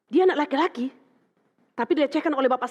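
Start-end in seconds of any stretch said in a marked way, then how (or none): none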